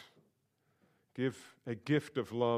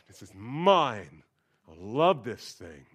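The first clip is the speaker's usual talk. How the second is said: slow, clinging this is mine; louder, doting mock possessiveness; possessive; 2 semitones lower, 9 dB louder, slower than usual. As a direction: hug the book with your voice. Voicing his possessive self about book.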